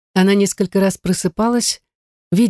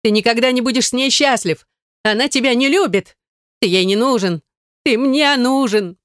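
high wailing cry; sobbing shout; 6 semitones higher than usual. A narrator's reading. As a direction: scream it through sobs. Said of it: "Сестра рыдала и кричала". (рыдая и крича, голос высоко)

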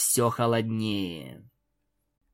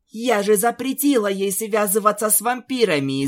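higher, irritated outburst; angry princess; 8 semitones higher than usual. Acted. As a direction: let the anger at her own warning show. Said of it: "злилась принцесса". (раздражённо, с гневом)

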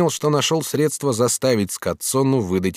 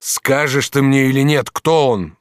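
louder, higher furious demand; in a fury; 6 semitones higher, 6 dB louder than usual. Acted. Jealous master demands the rival's name, furious. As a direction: demand his name in rage. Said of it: "вскричал Челлини в бешенстве".

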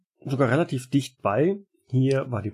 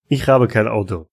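put-on lightly Russian-accented German; Russian janitor brushing them off; 2 semitones lower, 4 dB louder than usual. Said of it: "mit einem deutlichen russischen Akzent".

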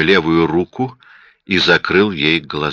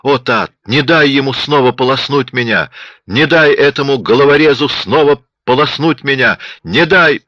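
loud, high, rising frantic begging; pleading builds to a scream; terrified pleading; 8 semitones higher, 4 dB louder than usual. A narrator's reading. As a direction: beg for rescue, getting more desperate. Wounded woman begs for help.

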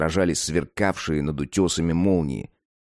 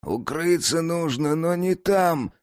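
objecting; 10 semitones higher, slower than usual. Acted. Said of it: "возразил Кент".

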